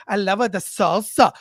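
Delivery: mock Spanish accent; lightly put-on Spanish accent, groping for words; Hilaria Baldwin. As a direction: imitate someone faking a Spanish accent. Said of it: "to be Spanish".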